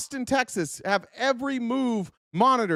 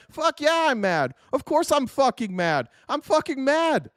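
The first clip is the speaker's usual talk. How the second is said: fed-up angry rant; real anger; 5 semitones higher than usual. Real, not acted. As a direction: let the anger spill out. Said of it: "Am I mad?".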